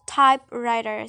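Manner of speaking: "typewriter" with TYPE stronger, writer lighter; stress on first element. Shown as a demonstration. Student giving another compound example, "typewriter" stressed on TYPE. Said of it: "the stress is on the first element".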